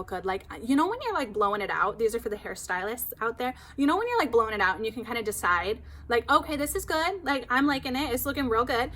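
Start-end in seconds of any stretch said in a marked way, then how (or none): 6.3-8.9 pleased excitement. Retold or imitated. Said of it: "I was totally having those feelings".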